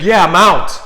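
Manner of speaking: high, loud distraught voice; retold tearful outburst; imitated sobbing. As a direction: imitate an upset ex confirming bad news. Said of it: "she's sobbing uncontrollably".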